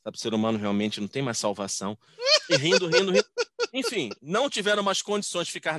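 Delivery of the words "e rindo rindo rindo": laughing. Real, not acted. Describing the uncontrollable laughing.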